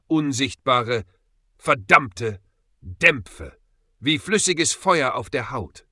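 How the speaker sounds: loud, broken-up words in pain; hoarse, pained gasping. A narrator's reading. Burned Peter tells Justus what hit him, gasping hoarsely. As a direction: force out each word, pausing between. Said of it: "keuchte Peter, seine Stimme heiser vor Schmerz".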